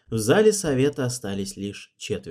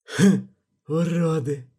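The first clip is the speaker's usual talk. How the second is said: slow, scornful, higher snort; 6 semitones higher, 4 dB louder, slower than usual. A narrator's reading. Cedric sneers at the nobles with scorn. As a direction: sneer it slowly. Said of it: "хмыкнул Седрик".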